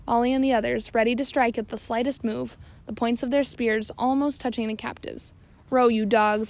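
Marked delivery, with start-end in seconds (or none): 5.7-6.5 loud scream at the rowers. Acted. Stash to his men in the longboat, loud scream. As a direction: yell the order to row. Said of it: "screamed Stash to his men".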